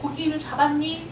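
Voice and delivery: gently acted, affectionate call; loving tone. Preacher as Jesus calling his disciples, mildly loving tone. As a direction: lightly voice a tender question to the children. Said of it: "사랑스러운 말투로".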